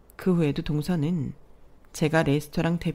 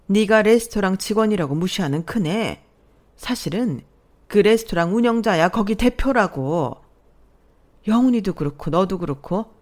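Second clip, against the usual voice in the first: louder, lecturing scold; indignant mother-in-law; 2 semitones higher, 3 dB louder than usual. Acted. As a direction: rebuke her pride sharply. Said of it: "얼굴이 벌개지셔서 말씀하셨어요". (얼굴 붉힌 시어머니가 꾸짖듯)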